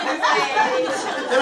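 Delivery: laughing while talking. Real, not acted. Traveler recounting the wait to listeners, laughing as she talks. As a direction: tell it through real laughter. Cracking up while telling the story.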